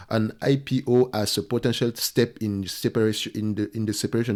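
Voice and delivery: English read out with a French accent; stumbling slightly through English, French accent. Real, not acted. Analyst finishing a quoted company statement, French-accented English. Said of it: "mon accent".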